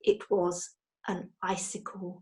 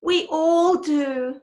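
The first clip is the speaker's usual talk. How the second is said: smiling; 7 semitones higher, 8 dB louder, much slower than usual. A narrator's reading. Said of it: "smiled Henry".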